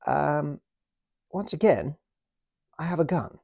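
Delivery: high, jolly British officer taking a prisoner; British toy officer politely arresting the German, in a high jolly voice. Pretend. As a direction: play the smug officer with the gun, pitched high. Acted toy soldiers' standoff.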